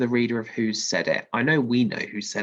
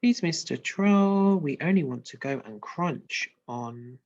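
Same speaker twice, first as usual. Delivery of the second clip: put-on pleading baby goat; 3 semitones higher, 4 dB louder than usual. Reading the goat's plea.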